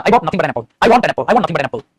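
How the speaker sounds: I want nothing but an apple, leaning on nothing but; slow it down to stress the point; emphatic nothing but. Shown as a demonstration. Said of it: "पता है क्या बोलते हैं".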